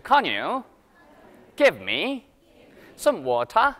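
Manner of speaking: British English, phrase by phrase, rising; careful British pronunciation drill; British accent. Shown as a demonstration. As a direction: model "water" British style, crisp t and no r. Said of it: "영국 사람 따라해보세요".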